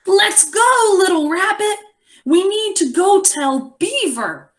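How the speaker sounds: high, eager call to hurry; excited character voice. Acted. Teacher reading to class, in an excited goose voice. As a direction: voice the goose urging rabbit on.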